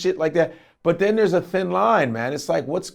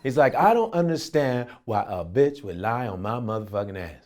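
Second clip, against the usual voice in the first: imitating T K; 5 semitones lower, 4 dB quieter than usual. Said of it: "T K's like".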